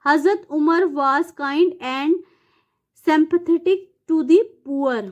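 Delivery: slow, deliberate read-aloud of English sentences; dictation reading. Acted. Teacher reading fill-in answers slowly for students to note. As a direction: spell it out slowly so students can write.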